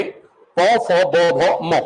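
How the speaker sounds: slow, spaced-out dictation of each letter; teacher dictating each sound slowly. Shown as a demonstration. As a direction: read the letters out slowly for copying. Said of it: "लिखो अभी".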